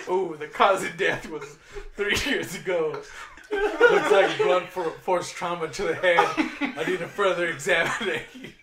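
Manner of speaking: laughing, lightly voiced mock expert; mock forensic expert. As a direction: play the serious coroner but crack up. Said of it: "pretend to be a forensic scientist".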